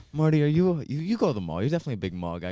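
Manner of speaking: put-on loud, high New York accent. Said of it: "heavy New York accent".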